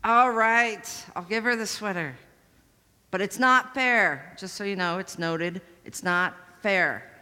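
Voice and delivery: slow, grudging "it's not fair"; sulky surrender. Retold or imitated. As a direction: give in but protest. Girl giving in, sulking.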